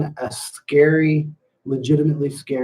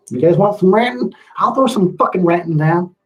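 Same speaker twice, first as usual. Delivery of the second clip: worked-up ranting, pitched up; playful rant; 5 semitones higher than usual. Pretend. Streamer offering viewers a rant, worked up and ranting. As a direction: launch into a higher-pitched mock rant. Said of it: "gonna get some ranting".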